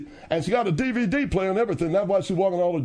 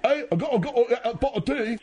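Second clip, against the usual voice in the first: lightly raised, cheeky fake Cockney; mock singer's Cockney; 3 semitones higher than usual. Friend mocks a singer's Grammy win in fake Cockney. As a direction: ham up a London singer, barely changed. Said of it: "I'm just doing a singer impression".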